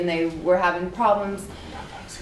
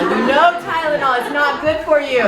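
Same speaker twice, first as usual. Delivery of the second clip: high and louder, laughing as she quotes; mock-stern Ida; 7 semitones higher, 6 dB louder than usual. Ida warning Sherry about Tylenol, higher and laughing. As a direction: quote Ida's scolding while laughing.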